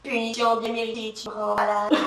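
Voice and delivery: quiet, disdainful muttered verdict; contemptuous. Acted. Plastic seat seeming to scold its sitter, contemptuous. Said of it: "semblait dire avec mépris".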